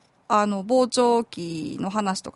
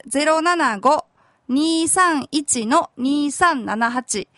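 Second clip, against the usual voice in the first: slow dictation; much slower than usual. Shown as a demonstration. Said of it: "電話番号は".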